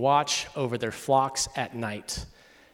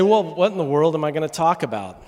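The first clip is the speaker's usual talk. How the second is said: louder, higher, exasperated plea; exasperated question; 4 semitones higher, 6 dB louder than usual. Retold or imitated. Son pleading with dad over the phone, exasperated. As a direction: throw up your hands at the task.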